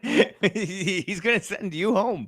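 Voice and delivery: high, laughing through words; giggling while talking. Real, not acted. Laughing at absurd supporters.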